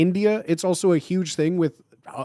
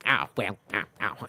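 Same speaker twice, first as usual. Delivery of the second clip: imitating David Mitchell; 7 semitones lower, 5 dB quieter than usual. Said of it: "David Mitchell will say something".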